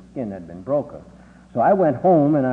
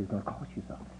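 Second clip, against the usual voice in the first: low threat; 3 semitones lower, 14 dB quieter, much faster than usual. Retold or imitated. Teacher threatens the boy.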